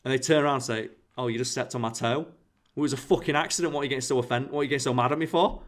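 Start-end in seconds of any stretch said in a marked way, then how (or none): 1.2-5.6 defensive snapping. Retold or imitated. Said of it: "you do the Ricky Gervais thing".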